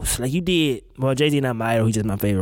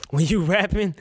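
laughing; 3 semitones higher than usual. Real, not acted. Laughing at a rapper's mumbling.

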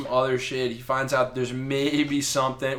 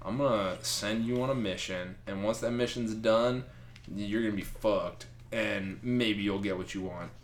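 low, much softer sinister threat; scheming Loki; 5 semitones lower, 9 dB quieter than usual. Retold or imitated. Loki threatens Thor, low and soft. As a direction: purr the threat like a scheming trickster. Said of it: "Loki's like".

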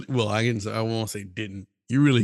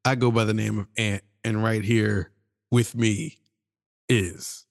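upbeat show host opener; podcast host intro; 4 dB louder than usual. Acted. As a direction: announce the show with energy.

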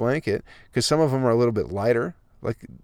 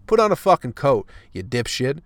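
exasperated rant; 2 semitones higher than usual. Real, not acted. Vlogger ranting at coatless pedestrians, exasperated yell. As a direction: bark it at the coatless crowd.

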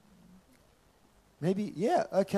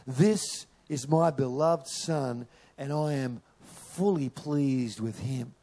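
slow, measured voice of God from heaven; a lightly voiced heavenly Father, slow and gentle; slower than usual. God's voice at Jesus' baptism.

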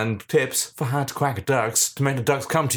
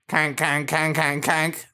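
duck greeting call; 5 semitones higher than usual. Shown as a demonstration. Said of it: "series of five to seven notes".

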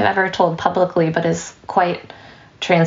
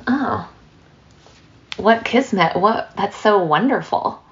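gushing neighbor; 2 semitones higher than usual. Acted. Neighbor gushes at good luck.

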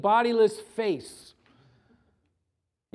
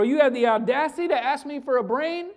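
scornful wizard; 5 semitones higher, 4 dB louder than usual. Acted. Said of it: "He says to the scarecrow".

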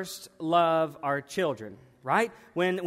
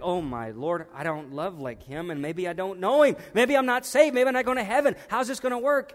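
a believer doubting their salvation, panicking more and more; anxious panic. Retold or imitated. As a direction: let the fear build until it breaks. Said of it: "And like".

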